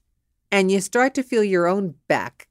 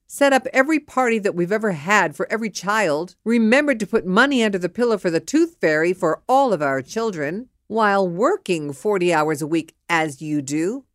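indignant retort. Acted. Wife crossing the line with husband, indignant. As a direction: list of grievances building faster and more forceful.

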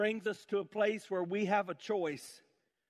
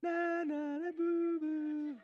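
mocking taunt; 9 semitones higher, slower than usual. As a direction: taunt them like a schoolyard bully. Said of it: "Elijah began mocking them / he scoffed".

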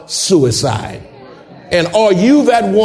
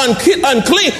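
hollered unclean; 4 semitones higher than usual. Shown as a demonstration. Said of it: "you need to holler out".

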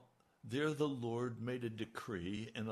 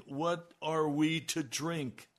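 grumbling; 3 semitones higher, 4 dB louder, slower than usual. Retold or imitated. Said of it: "the people grumbled against Moses, saying".

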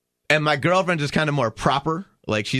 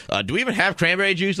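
mild mock yell, pitched higher; retold scream; 7 semitones higher than usual. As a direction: imitate a waitress calling to the bar. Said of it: "screams it to the bar".

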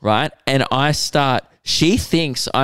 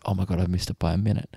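despair; 5 semitones lower, 8 dB quieter, faster than usual. Retold or imitated. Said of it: "I was like".

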